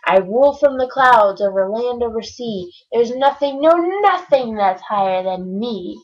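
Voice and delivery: mild mock howl; a touch of an angry king. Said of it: "howled the mighty King Yertle".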